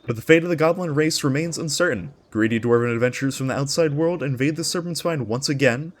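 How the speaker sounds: epic trailer-style storytelling voice; dramatic lore narration. Acted. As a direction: read it like the opening of a fantasy saga. Reads the lore intro aloud.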